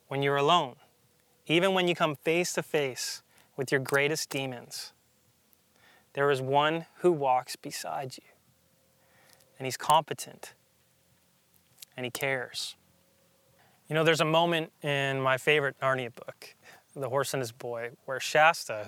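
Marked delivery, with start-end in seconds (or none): 6.1-12.7 hushed whisper, leaning in close. Real, not acted. Preacher whispering reassurance to the congregation. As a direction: whisper it like a secret comfort.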